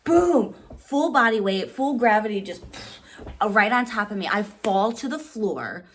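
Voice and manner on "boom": high, loud "boom"; punchy impact word. Retold or imitated. Describing the fall.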